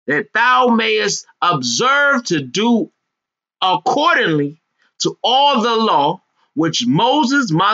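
slow, resonant scripture reading. Acted. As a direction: preach the verse slowly. Reads scripture in preacher voice.

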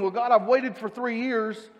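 lightly hammed complaint about waiting three years; mock complaining. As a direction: act out the grumbling believer. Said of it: "it's not complaining".

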